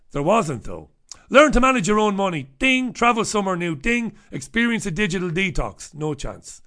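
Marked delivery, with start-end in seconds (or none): 2.6-2.9 high, short "ding"; imitated bell ding. Host ticking off a list item, high ding. 3.7-4.2 imitated bell ding. Ticking off a list item.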